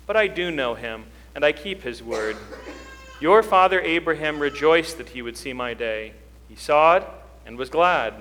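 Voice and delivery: measured, solemn scripture reading; gospel reading. Acted. Pastor reading the gospel to the congregation, solemn reading. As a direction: read it as the gospel at Mass.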